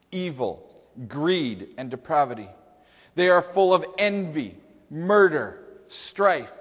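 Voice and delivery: measured list, each sin set apart; dramatic scripture reading. Acted. Preacher reads Paul's list of sins to the congregation, emphatic scripture reading. Reads the Bible verses aloud.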